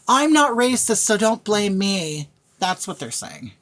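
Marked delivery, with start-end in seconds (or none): 0.1-2.3 mock virtue signaler. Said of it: "what they're saying is".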